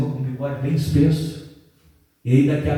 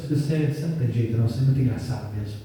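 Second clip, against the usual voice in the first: quick, lower, lightly amused retort; amused mother; 5 semitones lower, 4 dB quieter, faster than usual. Retold or imitated. Mother teasing her dramatic son, mildly amused. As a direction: brush it off fast with fond amusement. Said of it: "começou a rir e falou assim".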